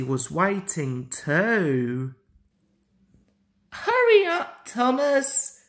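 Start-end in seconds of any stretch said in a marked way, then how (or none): 3.7-5.6 high, loud call to a friend. A narrator's reading. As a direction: call him to hurry up. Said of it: "called Percy".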